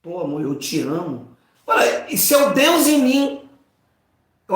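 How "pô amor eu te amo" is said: softer, loving words to his wife; tender to wife. Retold or imitated. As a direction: say it gently like a husband. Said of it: "Eu falo com ela aqui". (carinhoso e suave com a esposa)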